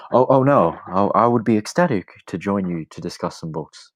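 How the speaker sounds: flustered eagerness. Acted. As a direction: stammer out an eager acceptance. Flustered boy eagerly accepts girl's invitation.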